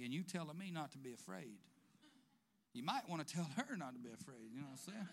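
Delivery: laughing. Real, not acted. Joking Joseph answers the angel.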